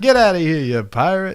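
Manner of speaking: loud, high, booming, teasing, belted out. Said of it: "he doesn't have that upward inflection".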